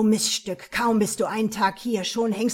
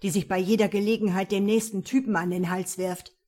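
angry; 5 dB louder than usual. Acted. Jealous man insults her.

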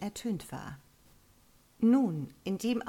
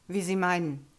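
abfällig; 6 dB louder than usual. Acted. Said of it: "sagte er nur abfällig".

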